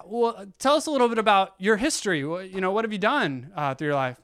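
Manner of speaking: a doctor cheerfully coaxing a mute patient, upbeat; bright coaxing doctor. Retold or imitated. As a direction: cheerfully coax a bored patient.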